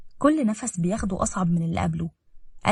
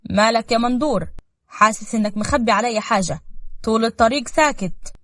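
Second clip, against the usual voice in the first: a touch of puzzled concern, louder; 3 semitones higher, 5 dB louder than usual. Acted. Hajj questions brother Mandour about his silence, puzzled. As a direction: ask your silent brother what's wrong. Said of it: "باستغراب".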